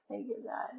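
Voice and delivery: hushed, breathless thank you, God; whispered prayer of thanks after the new pope appears. Retold or imitated.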